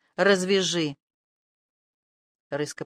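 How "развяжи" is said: moaning. A narrator's reading. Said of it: "простонал крыс".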